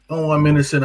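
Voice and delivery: hammed-up protest of innocence; mock plea. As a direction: whine it like a guilty man pleading.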